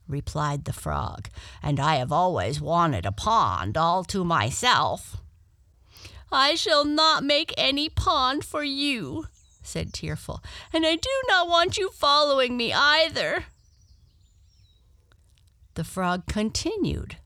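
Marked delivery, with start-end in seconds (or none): 1.6-5.2 lightly voiced frog, a little lower; a hint of a self-satisfied frog character; storybook frog. Frog speaks to Tearful. 6.3-9.3 high, loud protesting character voice; indignant Tearful. Acted. Tearful refuses the frog. 10.7-13.5 high, loud protesting character voice; indignant Tearful. Acted. Tearful refuses the frog.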